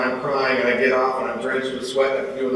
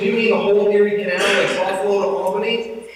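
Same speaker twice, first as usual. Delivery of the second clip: much higher and faster, louder at the start; half-panicked, checking he heard right; retelling his shock at his wife's plan; aghast disbelief; 11 semitones higher, 5 dB louder than usual. Retold or imitated. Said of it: "I said".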